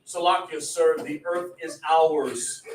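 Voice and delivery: slow, stilted scripture-like address; mock a stiff, overly proper speaker; measured formal recitation, gently mocking; mock formal talk. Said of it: "We don't talk like that".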